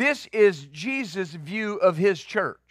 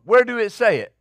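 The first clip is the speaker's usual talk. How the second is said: pastor's way of speaking; 3 semitones higher, 4 dB louder than usual. Retold or imitated. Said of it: "That's how he spoke".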